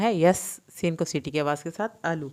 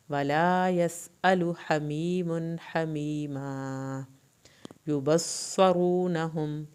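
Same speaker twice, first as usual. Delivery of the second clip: slow recitation; much slower than usual. Shown as a demonstration. Teacher recites verses to students, slow chant. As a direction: recite slowly, stretching the vowels. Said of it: "teacher models the recitation".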